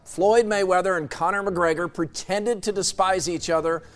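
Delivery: scripted sports editorial read; radio commentary. Acted. Host reads listeners a fight opinion piece, scripted commentary. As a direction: deliver punchy lines with pauses between them.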